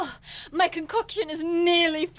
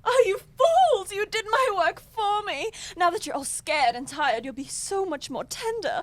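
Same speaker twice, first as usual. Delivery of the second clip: gloating witch; 4 semitones higher than usual. Acted. Witch reveals her trap.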